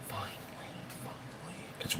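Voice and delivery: whispered finally. Real, not acted. Relief that the weather is warm.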